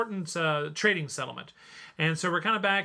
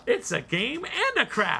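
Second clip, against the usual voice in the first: laughing; 8 semitones higher than usual. Real, not acted. Joking about whittling the pawn.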